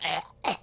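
short choked croaks; strangled little "eh" sounds; imitated choking noise. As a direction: mimic being choked. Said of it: "then I was like".

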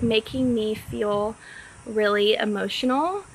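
mild imitation of him fighting tears; holding back tears. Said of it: "through tears that were evidently being held back".

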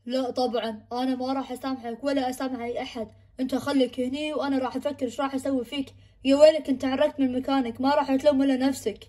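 a quiet sinister warning; menacing mother. Acted. Possessed mother threatening her son, low and soft.

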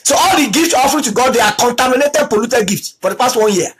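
ordinary talk, nothing marked

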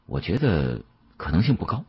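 plain reading voice

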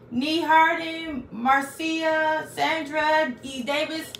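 excited roll call. Real, not acted. Calling out viewers' names.

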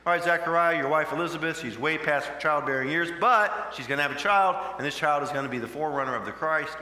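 a hint of a bold angel voice; lightly voiced angel, loud and brisk; angel's announcement.

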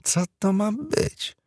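high, slow indignant cry; outraged, drawn-out question; indignant outburst. Acted. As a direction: sound scandalised by the TV. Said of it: "oburzyła się Sally".

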